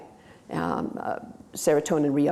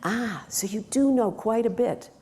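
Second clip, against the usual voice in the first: encouraging coach; 4 semitones higher than usual. Shown as a demonstration. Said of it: "The coach answers then".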